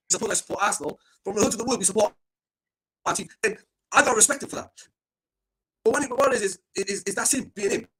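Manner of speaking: audio cutting in and out; choppy, breaking up over the line; bad connection. Real, not acted. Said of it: "your audio is having a problem".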